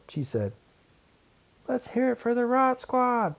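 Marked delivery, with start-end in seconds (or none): 1.7-3.3 high, odd creature voice; gremlin voice. Acted. Wanda as a gremlin questions Larry, eerie. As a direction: play a spooky log gremlin.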